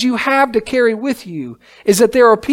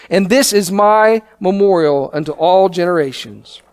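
measured, solemn reading of the Bible passage; preacher reading Exodus to the congregation; scripture reading. Acted. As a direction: read the verses like holy text, steady and grave. Reads scripture aloud.

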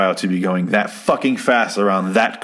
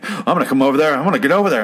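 higher, mildly worked-up warning; mock threat; 5 semitones higher, faster than usual. Fred threatening the old man across the road, lightly mock-angry. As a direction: play an agitated threat lightly, without shouting.

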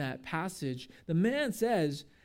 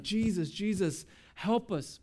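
mildly panicked plea, pitch rising; 4 semitones higher than usual. Acted. Panicking disciples calling to sleeping Jesus, mild panic. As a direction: act out a touch of panic, calling for help. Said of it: "They're panicking".

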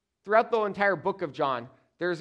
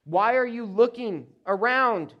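raised, louder challenging question; acted rebuke; 5 semitones higher, 7 dB louder than usual. Jesus asks Peter why he looks around, rebuking. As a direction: pull a follower up sharply, higher and louder.

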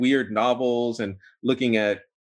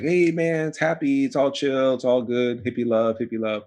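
a light parody of a blissed-out hippie, pitched higher and fading at the end; mock hippie voice; 3 semitones higher than usual. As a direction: toss it off like a sarcastic imitation of carefree hippies. Mocking the Burning Man crowd.

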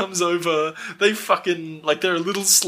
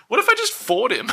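laughing mock quote; 7 semitones higher than usual. Mocking Nancy's sudden plan.

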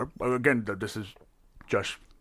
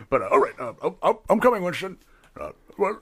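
higher, louder flustered calling out; squeaky high voice; 7 semitones higher, 4 dB louder than usual. Acted. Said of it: "I don't know what happened to my voice".

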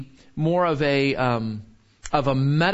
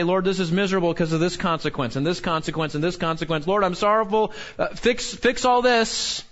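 whiny prayer; 2 semitones higher than usual. Pretend. Preacher mocking a self-pitying sinner's prayer, whiny. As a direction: whine to God about the consequences. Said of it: "it's easy to say".

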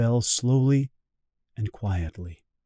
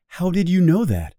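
surprised question, pitched up high; 7 semitones higher than usual. A narrator's reading. Narrator asks the little prince how he knew, surprised. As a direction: ask it in mild astonishment, voice lifting. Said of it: "I was surprised".

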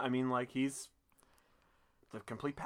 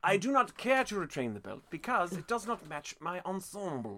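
put-on British accent; 3 semitones higher, 3 dB quieter than usual. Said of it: "a British accent is dignified".

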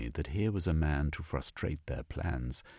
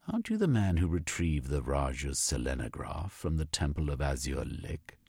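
lightly voiced haughty official, pitched higher; a supercilious man turning suddenly polite; hint of a lofty gentleman scientist; haughty zoologist; 5 semitones higher than usual. Frenulum greets the explorer.

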